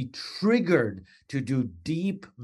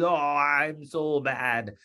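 slow, drawn-out mopey lament; mock self-pity; much slower than usual. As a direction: overplay guilt as a joke. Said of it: "it means".

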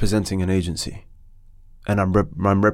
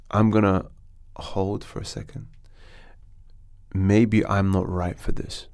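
softer, slow and measured; polite, diplomatic; 4 dB quieter, slower than usual. Retold or imitated. Guest retells politely stepping back from the audition, soft and slow. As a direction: calmly step back from the audition. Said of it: "very politely, very diplomatically".

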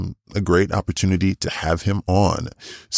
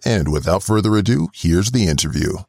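podcast intro read; 2 semitones higher than usual. Acted. Host reading the episode intro to listeners, upbeat announcer read.

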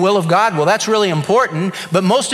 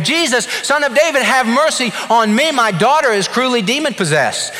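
shouting after him; 6 semitones higher than usual. Acted. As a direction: shout it after someone walking away. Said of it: "She begins to shout".

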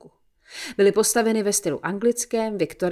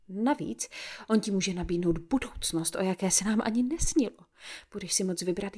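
a hint of a mother talking her daughter round; mother's voice.

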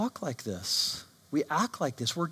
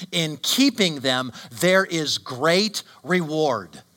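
louder, solemn reading of the psalm; scripture reading; 4 dB louder than usual. Acted. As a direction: proclaim the psalm to the congregation. Reads Psalm nineteen aloud.

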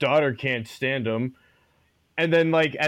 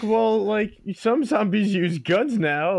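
nerdy extra; 7 semitones higher, slower than usual. Retold or imitated. Imitating the nerdy extra's retort.

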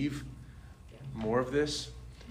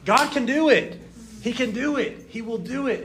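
high, loud, fired-up declaration; worked-up faith; 13 semitones higher, 8 dB louder than usual. Retold or imitated. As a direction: proclaim it, building confidence. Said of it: "I was just getting so worked up".

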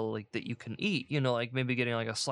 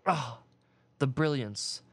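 sarcastic. Acted. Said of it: "The brilliance, everyone".

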